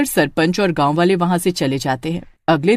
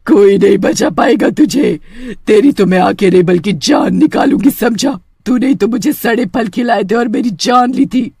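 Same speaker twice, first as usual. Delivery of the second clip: menacing witch; 2 semitones higher than usual. Acted. Witch threatens Sunny.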